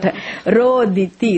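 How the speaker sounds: slow, clear, every syllable given; teacher modelling Roditi slowly; slow model word. Shown as a demonstration. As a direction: say it slowly for the class to echo. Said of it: "Is that now".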